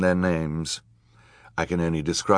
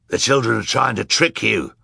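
raised, higher villain voice; villain's warning; 4 semitones higher, 3 dB louder than usual. A narrator's reading. Villainous man discrediting the children before the crowd, raised voice. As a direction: warn the crowd in character.

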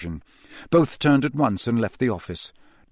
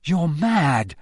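higher-pitched accusation with a falling end; blurted accusation; 4 semitones higher than usual. A narrator's reading. Harry blurts at Moody, accusing. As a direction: blurt it out at him. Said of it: "He couldn't stop himself".

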